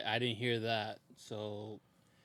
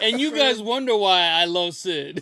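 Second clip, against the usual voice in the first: high, loud, slow through laughter; laughing loudly; 8 semitones higher, 17 dB louder, slower than usual. Real, not acted. Fan delighted by a Sid impression, laughing loudly. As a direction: crack up while saying it.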